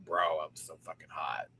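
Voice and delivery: 1 whispered. Real, not acted. Remembering anger, hushed.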